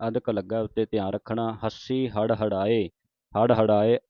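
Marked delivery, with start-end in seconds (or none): 1.6-2.1 ਹੱਸੀ with a tight, held double s; tight doubled consonant. Shown as a demonstration. Teacher showing students the adhak, ਹੱਸੀ said tight. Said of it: "ਹੱਸੀ ਕੱਸ ਕੇ ਬੋਲਣਾ ਹੈ". 3.3-4.0 ਹੜ ਹੜਾਏ with a firm flapped ṛ; louder, curl the tongue for ੜ in ਹੜ ਹੜਾਏ; clear retroflex flap. Shown as a demonstration. Teacher models the ੜ sound, ਹੜ ਹੜਾਏ pronounced firmly. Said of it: "ਦਾੜੇ ਦੀ ਆਵਾਜ਼ ਉਚਾਰਨ ਹੋਵੇ".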